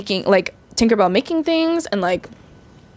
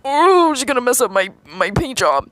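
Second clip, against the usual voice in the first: panicked ladybug. Retold or imitated. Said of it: "This ladybug is shivering for its life".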